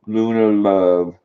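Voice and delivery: drawn-out loving croon; slow affectionate coo. Real, not acted. Owner crooning to her dog Luna, slow and loving. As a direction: stretch it out lovingly. Cooing the dog's name.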